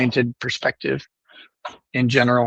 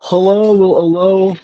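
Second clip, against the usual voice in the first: put-on Arabic accent; 3 semitones higher than usual. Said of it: "Can we have some of your infidel Arab accent".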